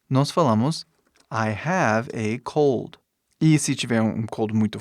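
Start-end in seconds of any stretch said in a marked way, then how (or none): 1.3-3.0 slow, careful teaching delivery; slow model sentence. Shown as a demonstration. Teacher gives students an English cold example, slow and careful. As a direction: model each English word slowly.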